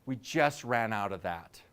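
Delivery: a hint of an apologetic server; polite waiter. Waiter answering the customer.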